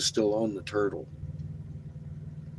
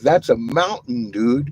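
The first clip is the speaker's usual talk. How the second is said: loud, amazed exclamation; excited loud declaration; 3 semitones higher, 8 dB louder than usual. Retold or imitated. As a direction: tell him it's a mountain, thrilled.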